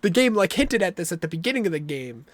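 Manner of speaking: loud, high excited outburst; sudden realization. Retold or imitated. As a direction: shout it as it clicks. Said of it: "you're like".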